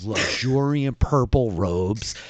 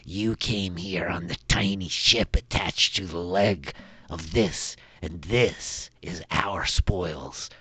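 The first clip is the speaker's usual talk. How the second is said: lower, grand self-proclamation; a hint of a kobold warlord; 4 semitones lower, slower than usual. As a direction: announce yourself as the Droon's leader. Galak Droon declares himself.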